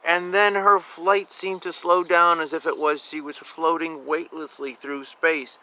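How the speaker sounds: gentle read-aloud, wondering; story narration. A narrator's reading. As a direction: let it float with wonder. Reading picture book aloud.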